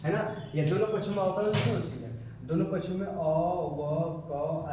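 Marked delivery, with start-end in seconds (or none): 2.5-4.7 slow dictation. Real, not acted. Dictating while writing the step.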